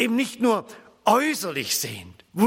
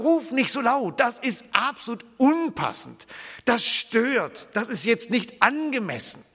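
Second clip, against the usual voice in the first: lightly voiced objectors, pitched higher; scolding bystanders; 4 semitones higher than usual. Crowd hushes the shouting blind man, lightly acted higher-pitched reproach. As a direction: imitate a crowd telling someone off. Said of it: "kommen auch schon eine ganze Reihe und sagen".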